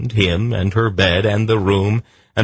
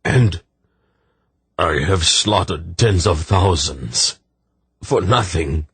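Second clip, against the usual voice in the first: slow, heavy lament, a touch of weeping; tearful anguish; slower than usual. Acted. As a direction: mourn every word, slowly. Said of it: "he groaned with tears welling".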